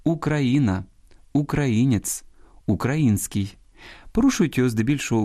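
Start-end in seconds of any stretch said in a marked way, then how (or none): 0.0-3.6 Україна, українець, український stressed on the і sound after -кра-; stress on third syllable. Shown as a demonstration. Host reads the forms used in literary Russian, third-syllable stress on Україна, українець, український. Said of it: "такий наголос закріпився".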